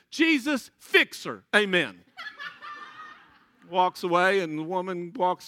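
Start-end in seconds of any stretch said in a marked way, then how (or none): 0.1-2.0 put-on louder, blunt little boy's prayer; child's simple prayer. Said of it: "reaches up his hand to the lady and says". 2.2-3.1 high laugh. Real, not acted. Laughing at son's prayer.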